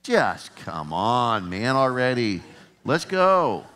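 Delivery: mock impatient nudge. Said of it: "Turn to somebody and say".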